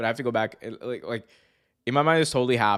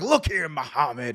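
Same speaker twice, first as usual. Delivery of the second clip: tough-talking, condescending character voice; 4 semitones higher than usual. Retelling a wrestling promo, quoting Hulk Hogan: Hulk Hogan impression. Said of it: "he's like".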